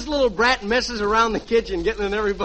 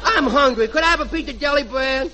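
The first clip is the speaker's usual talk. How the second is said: a pestering brat begging; little boy; 3 semitones higher than usual. Acted. Junior begging his mother for jelly bread, whiny kid. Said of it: "and I'll be the little boy".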